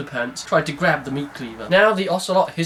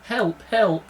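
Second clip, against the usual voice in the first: high, frightened cries; trembling calls for help; frightened screaming; 6 semitones higher than usual. Acted. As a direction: cry out in fright. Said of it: "trembling with fright and screaming".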